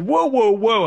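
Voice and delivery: high mock "whoa" cutting in; high, playful mock interruption; imitating Brokaw. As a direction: jump in like the host interrupting again. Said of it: "and he said".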